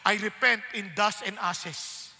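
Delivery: slow, low repentance; Job. Retold or imitated. Humbled man repents on seeing God, slow and low. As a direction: act out an awed, humbled confession. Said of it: "Nung nakita niya si God".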